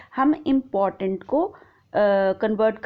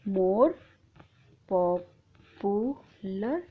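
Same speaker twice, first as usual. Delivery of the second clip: drawn out; 2 semitones lower, 4 dB quieter, much slower than usual. Shown as a demonstration. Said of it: "तो यहाँ पे हो जाएगा more popular".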